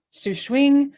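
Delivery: Sushwing in halting non-native Mandarin tones; foreigner speaking Mandarin. Real, not acted. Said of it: "My Chinese is terrible".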